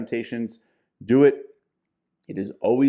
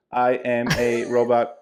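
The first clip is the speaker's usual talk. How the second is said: slow flat robot voice; 4 dB louder, slower than usual. Pretend. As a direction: speak like a robot. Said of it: "I have this desire to talk like a robot".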